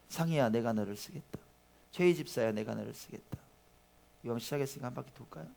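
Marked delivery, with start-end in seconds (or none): 0.1-1.4 soft, calm call to 상희야 as the Lord; the Lord calling softly. Acted. Pastor voices the Lord calling a member, softly. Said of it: "주님 말씀하십니다". 1.9-3.4 the Lord's voice. Acted. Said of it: "주님 말씀하십니다".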